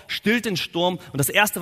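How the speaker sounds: ordinary talk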